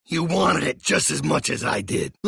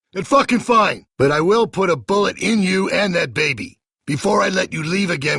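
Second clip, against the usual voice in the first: higher and louder, spitting out the curses; enraged father shouting threats; furious shouting; 6 semitones higher, 3 dB louder than usual. Acted. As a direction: yell him down, out of control. Furious confrontation over leaving group.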